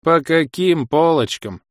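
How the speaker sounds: nagging village granny; scolding old woman. Acted. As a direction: scold him like a cranky old wife. Old wife indignant. (ворчливая старуха)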